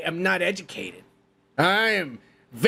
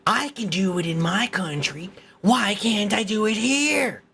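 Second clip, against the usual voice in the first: mock tourist; 4 semitones higher than usual. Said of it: "stupidest fucking question in the world".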